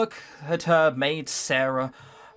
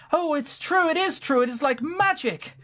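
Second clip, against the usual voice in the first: high, bright gasp of wonder; a girl who can't believe her luck; delighted Sarah; 11 semitones higher than usual. Acted. Sarah finding the silver coin, high and thrilled.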